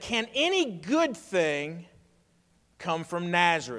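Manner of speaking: ordinary talk, nothing marked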